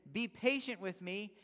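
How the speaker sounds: slow, drawn-out plea on his knees; slow pleading. A narrator's reading. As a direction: beg slowly and earnestly. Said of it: "fell to his knees and begged him".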